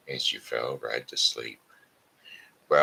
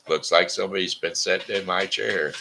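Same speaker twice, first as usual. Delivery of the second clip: lightly voiced papa bear, a touch louder; 4 semitones higher, 5 dB louder than usual. Papa Bear notices his chair was used, mild grumble.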